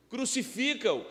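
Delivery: high, loud imitation of a crowd's cry; retold crowd shout. Pastor quoting the crowd against Jesus, retold shout. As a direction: call it out like the crowd, mid-sermon. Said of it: "ela está gritando agora o quê?".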